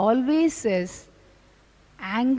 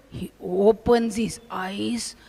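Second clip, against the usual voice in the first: whispered narration; 3 semitones lower, 5 dB quieter, slower than usual. A narrator's reading. Narrating the sadhu's fury.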